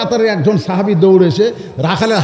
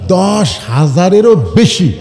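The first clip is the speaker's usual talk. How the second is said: slow, with "দশ" held long; emphatic repeat; slower than usual. Real, not acted. Preacher repeating the burial count to congregation, emphatic. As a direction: draw out "দশ" and weigh each word.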